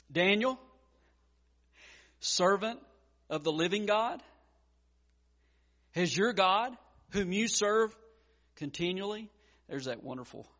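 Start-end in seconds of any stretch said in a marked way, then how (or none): 0.1-9.3 anguished call. Retold or imitated. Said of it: "in an anguished voice".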